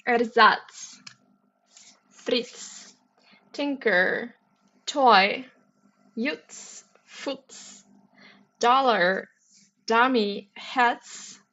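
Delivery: put-on words read in a light German accent. Reading puzzle words in mild German accent. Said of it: "I'm even reading this with a German accent".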